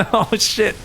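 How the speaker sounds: ordinary talk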